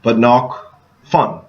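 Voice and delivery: slow. Shown as a demonstration. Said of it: "so knock loud".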